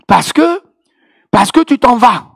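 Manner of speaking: high, loud mock-indignant Ivorian accent. Sister protests her pastor's leaving, high Ivorian-accented outcry. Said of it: "avec son bel accent ivoirien".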